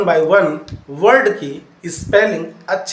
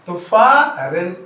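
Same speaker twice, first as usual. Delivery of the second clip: slow syllable demo; 3 dB louder, much slower than usual. Shown as a demonstration. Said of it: "एच ध्यान रखना है आपको".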